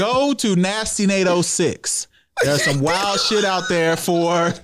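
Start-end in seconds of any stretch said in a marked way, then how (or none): 0.0-2.1 slow plug. Real, not acted. Repeats his plug, drawn out.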